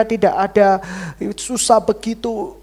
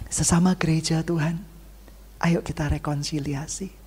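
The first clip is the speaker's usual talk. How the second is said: whisper; 3 semitones lower, 7 dB quieter than usual. Acted. Whispered appeal to church.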